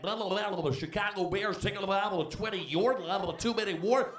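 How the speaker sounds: lightly voiced broadcaster drone; sports broadcaster. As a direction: mimic a TV football announcer. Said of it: "They're like".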